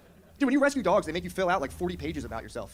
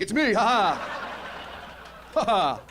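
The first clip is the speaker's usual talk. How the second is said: slow, louder, higher mocking ha ha; gloating taunt; 7 semitones higher, 4 dB louder, much slower than usual. Taunting an old bully mid-act, gleeful mocking laugh. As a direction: savour the reveal like a gleeful prank. Popping up to mock bullies.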